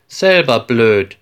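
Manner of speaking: put-on a boy hitting back at his classmate in anger; angry retort. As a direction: fire the insult straight back. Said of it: "sagt Peter verärgert".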